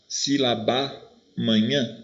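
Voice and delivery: slow, spelled-out sílabá... manhã; teacher slowly showing sílaba amanhã as sílabá-manhã; two As merged. Shown as a demonstration. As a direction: give sílaba the shared A, leaving manhã after it. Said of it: "Eu não juntei os dois As".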